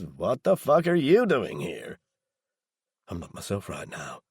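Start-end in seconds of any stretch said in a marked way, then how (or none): 0.0-2.0 angry. A narrator's reading. Woken man confronts intruder.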